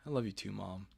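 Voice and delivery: soft, low, loving reply; tender. Acted. Son saying goodbye to his mom, tender and low. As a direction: answer quietly, an octave of feeling held back. Child answers mom's goodbye.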